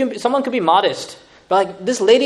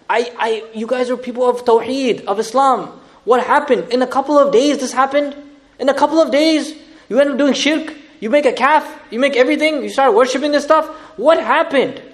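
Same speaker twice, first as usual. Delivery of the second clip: pleading; 5 semitones higher than usual. Acted. Musa pleading with his people.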